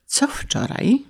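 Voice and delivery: high, hushed anxious question; full of dread. Acted. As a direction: ask it softly, fearing the worst. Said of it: "pełen najstraszniejszych przeczuć". (cicho, pełen najgorszych przeczuć)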